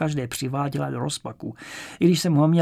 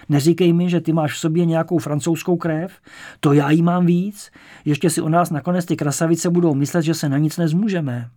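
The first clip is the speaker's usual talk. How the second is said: louder, hearty, teasing friend; boisterous teasing; 3 semitones higher, 6 dB louder than usual. A narrator's reading. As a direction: egg him on with gusto. (hlasité škádlení)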